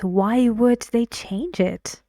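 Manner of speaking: mildly puzzled question; wondering at something unusual; puzzled surprise. Acted. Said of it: "this is something unusual. He thinks".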